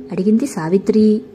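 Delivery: ordinary delivery, nothing marked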